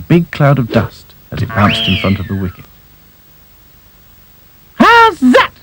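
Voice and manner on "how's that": high loud cricket appeal; shouted appeal. Acted. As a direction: yell it at the umpire. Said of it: "yelled Dotty".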